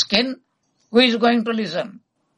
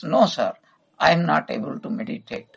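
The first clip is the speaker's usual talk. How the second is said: subdued, lower-pitched admission; abashed; 4 semitones lower than usual. Retold or imitated. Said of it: "M hangs his head in".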